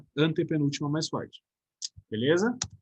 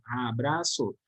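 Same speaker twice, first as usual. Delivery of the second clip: syllable by syllable; 4 semitones lower, 4 dB quieter, much slower than usual. Shown as a demonstration. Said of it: "a gente fala em impulsos de voz".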